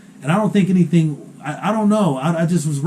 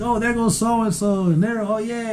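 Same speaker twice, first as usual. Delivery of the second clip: imitating dad in a higher voice; higher-pitched, lightly mimicked running commentary; mock excited chatter; 6 semitones higher than usual. Son imitating his dad who knows everybody here in town, mock excited.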